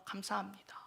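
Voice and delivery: whispered 감사합니다, breathy and soft; whispered thanks. Shown as a demonstration. Believer thanking God, whispering 감사합니다 softly. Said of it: "우리는 감사하셔야 돼요".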